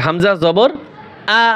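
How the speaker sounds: আ said short, without drawing it out; short vowel. Shown as a demonstration. Teacher showing students a hamza with zabar, short unstretched আ. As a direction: keep the final আ brief, no stretching. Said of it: "টান দেওয়া যাবে না".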